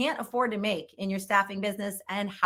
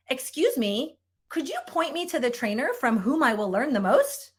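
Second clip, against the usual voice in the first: stiff formal request; 4 semitones higher than usual. Pretend. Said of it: "What are you saying".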